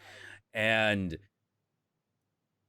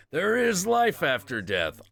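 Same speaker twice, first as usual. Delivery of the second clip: golden Buddha; 8 semitones higher, 4 dB louder than usual. Acted. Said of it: "very triangular golden Buddha".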